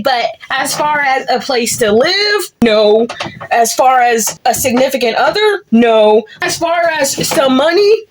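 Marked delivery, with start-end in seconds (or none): 2.6-3.1 no dropped low and loud; a hard, final no; emphatic no. Real, not acted. Emphatic repeated flat refusal. 5.7-6.2 no dropped low and loud; a hard, final no; emphatic no. Real, not acted. Emphatic repeated flat refusal.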